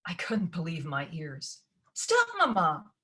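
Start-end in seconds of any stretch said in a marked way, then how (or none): 1.9-2.9 protesting cry. A narrator's reading. Ella protesting.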